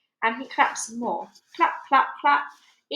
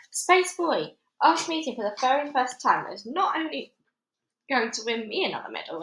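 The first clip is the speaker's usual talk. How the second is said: pompous major announcing; 4 semitones higher than usual. Acted. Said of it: "announced Major Majors".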